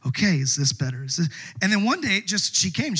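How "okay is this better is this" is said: low, careful attempt at a gentler tone; trying another tone. Husband tests a new tone on his wife, tentative and low. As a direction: test out a lower-pitched voice. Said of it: "I'm trying different things when I'm talking".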